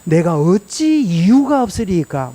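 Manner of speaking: 어찌 and 이유가 stretched out slowly; drawn-out, dignified answer; slow solemn David. Acted. David answering his mocking brothers, slow and dignified. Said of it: "형들이 지금 막 네가 완악하다 이러니까".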